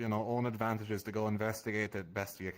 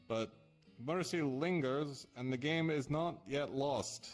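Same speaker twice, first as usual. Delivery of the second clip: slow, measured riddle reading; slow verse reading; slower than usual. Acted. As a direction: read it like an ominous prophecy. Reads cryptic riddle verse aloud.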